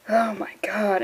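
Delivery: whispered oh my God; stunned whisper. Real, not acted. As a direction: breathe it out in shock. Shocked reaction while reading.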